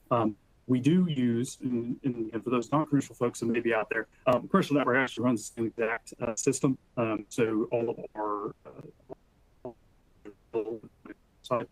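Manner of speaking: audio cutting in and out; choppy dropping connection; corrupted glitchy audio. Real, not acted. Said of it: "your audio is cutting out really bad".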